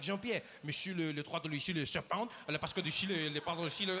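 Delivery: imitated French father rattling on; French-sounding patter; mock French. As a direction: gabble in pretend French to your son. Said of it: "He turns to his son".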